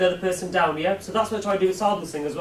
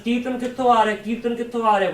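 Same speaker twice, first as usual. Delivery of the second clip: retold shout; 5 semitones higher, 4 dB louder, faster than usual. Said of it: "started shouting".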